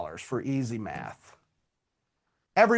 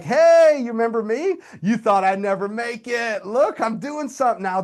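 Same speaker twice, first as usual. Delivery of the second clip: higher, louder, eager show-off greeting; gloating greeting; 7 semitones higher, 5 dB louder than usual. Pretend. Coach playing himself bragging to his old teacher, pitched up with excitement. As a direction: boast to the teacher who doubted you.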